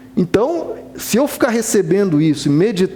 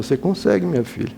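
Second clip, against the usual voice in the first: gentle encouragement, trailing softer into minha filha; reassuring father; 4 dB quieter, faster than usual. Retold or imitated. Father encouraging his crying daughter to read, softly reassuring. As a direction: coax a struggling child softly. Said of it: "o tempo todo elogiando ela".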